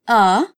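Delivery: A-may-zing split into three beats, may stressed; A-may-zing spelled out in beats; syllable by syllable. Shown as a demonstration. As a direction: break amazing into A, may, zing. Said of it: "Amazing é incrível".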